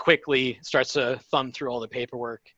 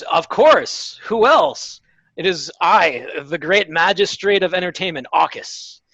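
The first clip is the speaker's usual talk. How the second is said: dramatic magistrate; 2 semitones higher than usual. Acted. Magistrate introducing himself to the party, hammed-up announcer voice. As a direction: proclaim yourself like a showman. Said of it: "he's very dramatic about everything".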